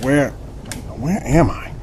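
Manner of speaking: slow, dazed wakening groan; groggy groan. Acted. Captive waking on the boat, groggy and slow. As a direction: come round from being knocked out.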